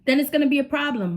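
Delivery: lightly voiced stern mother; warning mom. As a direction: play the strict mother setting a deadline. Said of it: "She's like".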